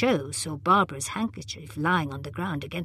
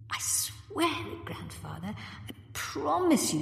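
insisting; 9 semitones higher, 5 dB quieter, slower than usual. A narrator's reading. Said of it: "Susan insisted".

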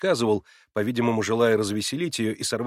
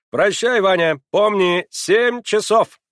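высоко, громко и медленно; крикни вслед напоминание; напоминание на прощание; 10 semitones higher, 9 dB louder, slower than usual. A narrator's reading. (Маслобоев кричит Ване на прощание, медленно)

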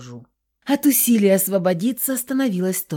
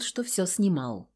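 plain reading voice

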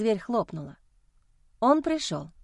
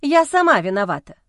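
bitter loud; 8 dB louder than usual. Acted. Wife's bitter outburst.

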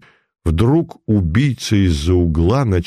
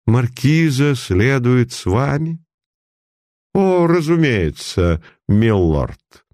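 affected aristocrat; 4 semitones higher, slower than usual. Acted. Mannered high-society exchange.

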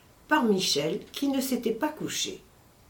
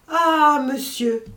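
a loud, high Ah, then a quicker monsieur; terrified cry; 5 semitones higher, 5 dB louder, slower than usual. Acted. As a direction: cry out in alarm. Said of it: "cria ces simples mots, mais trois fois répétés". (cri d'effroi, Ah aigu et fort)

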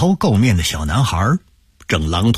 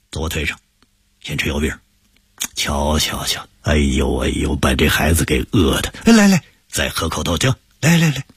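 put-on an old shopkeeper coaxing a child; kindly elder uncle; 5 semitones lower than usual. Uncle comforts frightened boy.

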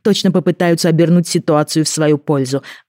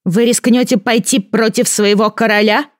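put-on boy king challenging; 7 semitones higher than usual. A narrator's reading. Boy king challenging the advisor, high and slow. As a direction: dare them in a child's voice.

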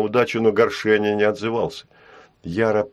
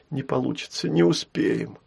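sad; 4 semitones higher, 4 dB quieter than usual. Acted. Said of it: "отозвалась Яра грустно".

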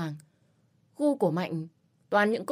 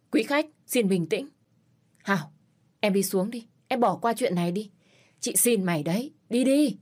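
louder, pleading and anxious; urgent pleading; 3 semitones higher, 4 dB louder than usual. Acted. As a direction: beg her to leave now. Manager holds Mạnh back, pleading.

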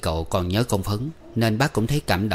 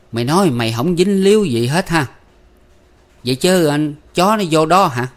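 glaring rebuke; 7 semitones higher, 6 dB louder than usual. A narrator's reading. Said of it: "Bác hai gái trợn mắt".

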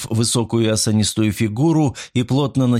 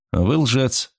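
jokingly; 5 semitones higher than usual. Acted. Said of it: "шутливо отозвался Николсон".

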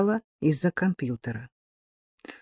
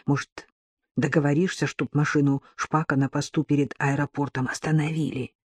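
whispering on the phone; 3 semitones lower, 6 dB quieter than usual. Acted. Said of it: "Георгий продолжал шептать".

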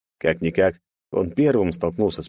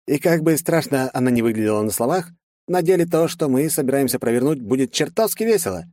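higher, gleeful officer voice; cheerful French colonel; 7 semitones higher than usual. Acted. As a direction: relish the mad plan.

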